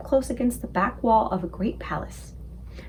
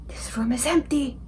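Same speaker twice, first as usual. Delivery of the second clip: unvoiced giant whisper; 2 semitones higher than usual. A narrator's reading. The giant reporting an empty room, whispered. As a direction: hush the words. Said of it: "he whispered".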